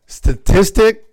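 STATISTIC slow and careful, rising like a question; struggling to say it. Real, not acted. Woman struggling with a hated word, STATISTIC slow and tentative. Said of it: "I hate trying to say this word".

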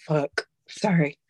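slow, whispered curse and sorry, voice gone; choked-up whispered sorry; real whispered apology. Real, not acted. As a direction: let it slip out under the breath, overcome. Breaks off while emotional.

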